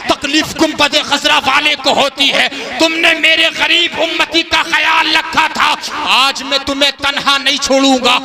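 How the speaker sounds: fiery preaching at full force; booming political rally speech. Acted.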